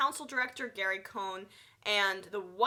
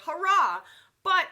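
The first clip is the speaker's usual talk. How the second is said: sarcastic cheer; 9 semitones higher, 10 dB louder, slower than usual. Real, not acted. Sarcastic cheer about hurting poor.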